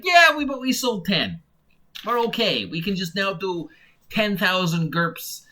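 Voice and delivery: a lightly put-on smug publisher; lazy company man, hammed up a little; mock publisher voice. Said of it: "I don't know why I'm talking like this".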